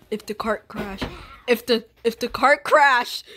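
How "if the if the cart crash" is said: louder. Shown as a demonstration. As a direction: raise the voice a bit. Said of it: "talk a little bit louder".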